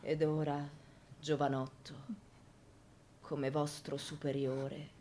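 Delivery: stern command. Acted. Priest ordering the young man silent, stern and low. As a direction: lay down the order with weight.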